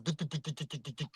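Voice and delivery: soft, rhythmic mock pulse beats; throbbing vein noise. Imitating his pounding forehead vein, soft rhythmic duhs. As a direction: tap out the throb of an angry vein under your breath. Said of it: "the vein inside of my head was going".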